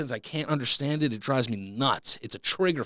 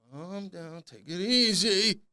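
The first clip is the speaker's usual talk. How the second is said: self-soothing; 5 semitones higher, slower than usual. Retold or imitated. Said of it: "immediately calm down".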